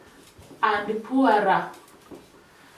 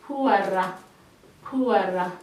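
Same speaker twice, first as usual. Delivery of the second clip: drilled repeats of poorer, lower and softer; drill repetition; 5 semitones lower, 4 dB quieter than usual. Shown as a demonstration. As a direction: model the word for pupils to copy. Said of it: "You drill as you pronounce".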